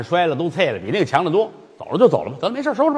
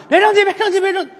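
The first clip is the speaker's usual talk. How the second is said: put-on high, giggly child's plea; calm him down like a little boy; coaxing child; 4 dB louder, faster than usual.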